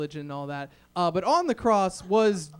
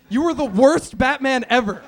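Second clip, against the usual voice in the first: mocking laugh; 6 semitones higher, 9 dB louder than usual. Dad mocking son's Batman set.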